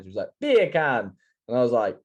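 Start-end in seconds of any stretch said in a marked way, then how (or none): 0.4-1.1 mum's higher-pitched Jamaican-accent attempt; imitating mum doing mock-Jamaican; light Jamaican accent on "Beer can", pitched up. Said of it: "Say beer can".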